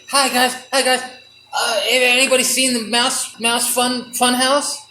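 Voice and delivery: a hint of a chirpy mouse greeting. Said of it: "Well, I wasn't gonna say".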